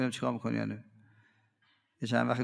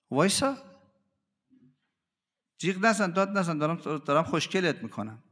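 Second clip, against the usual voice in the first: coaxing sculptor; 5 semitones higher than usual. Acted. Trainer voiced shaping the stone.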